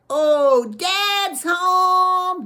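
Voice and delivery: high, loud excited cry; thrilled someone's come home; excited kids. A narrator's reading. Children hear the front door open, high loud excited cry.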